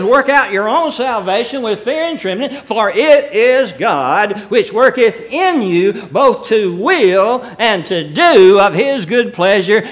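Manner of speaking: slow, weighty preaching delivery; scripture declamation. Acted. Preacher quoting Paul on God's working, emphatic declamation. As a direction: drive the verse home, drawing out the key words.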